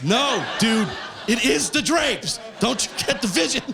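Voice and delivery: high, insistent pitch of an idea; mock exasperated insistence. Comic defending his rug backdrop, mock exasperation. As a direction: plead the vision, mock-exasperated. Acted argument about the stage rug.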